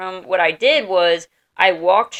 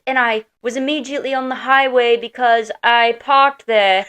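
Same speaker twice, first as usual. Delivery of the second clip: imitating Ginny; 5 semitones higher, 3 dB louder than usual. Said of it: "That's how she talks".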